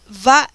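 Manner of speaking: Vaiatzar in loud, widely separated syllables; Hebrew sounded out. Shown as a demonstration. Teacher reads the verse's Hebrew verb, Vaiatzar slowly sounded out. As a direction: break Vaiatzar into long syllables, va, ia, tzar.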